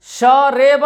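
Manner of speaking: शरीब drawn out as "shaa-ray-baa"; wrong-example long "shaa-ray-baa" for शरीब; majhool vowel. Shown as a demonstration. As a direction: stretch शरीब with "ay" in the middle. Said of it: "शरीब नहीं पढ़ेंगे".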